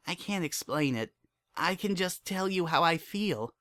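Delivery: a daughter talking her father round; young filly Dinky. A narrator's reading. Dinky voiced by narrator.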